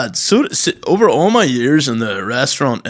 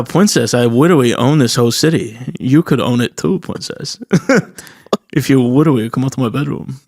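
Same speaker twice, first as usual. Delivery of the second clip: put-on babyish w-for-r and l voice; mock-suave oddball wooing; comic put-on accent. Man from the reels wooing his princess, comic babyish accent. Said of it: "I've been saying that accent all weekend".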